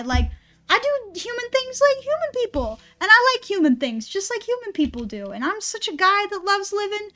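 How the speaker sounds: lightly voiced chipper robot guy, overly upbeat about life; mock cheerful robot. Streamer mocking an anime robot who loves life, hammed-up cheer. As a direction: ham up a doomed character gushing about living. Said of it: "a character walks in like fucking this".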